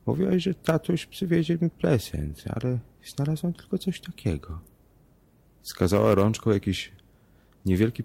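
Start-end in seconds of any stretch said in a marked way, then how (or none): 0.0-4.6 put-on much higher child voice, lisping; lisping little girl. A narrator's reading. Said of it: "wysepleniła".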